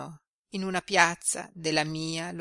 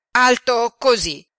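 put-on higher and louder girl's voice showing the height; eager young girl; 7 semitones higher, 11 dB louder than usual. A narrator's reading. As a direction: proudly show how tall, like a young girl. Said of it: "fece tosto".

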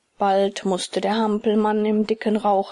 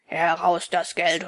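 threatening robber; 4 semitones lower than usual. Acted. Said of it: "drohte nun der größere".

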